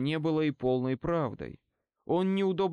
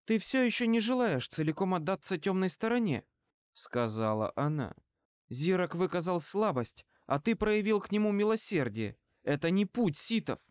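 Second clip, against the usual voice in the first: lightly voiced, higher-pitched female challenger; challenging woman; 5 semitones higher than usual. Woman rebukes Bane for showing mercy, mildly challenging. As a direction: raise the pitch into a pointed reproach.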